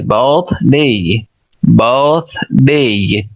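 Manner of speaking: "birthday" said slowly in two clear syllables; careful British pronunciation. Shown as a demonstration. Teacher showing learners how it goes, careful "birthday" pronunciation. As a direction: model "birthday" with a long, clear final "ay". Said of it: "तो इस तरीके से".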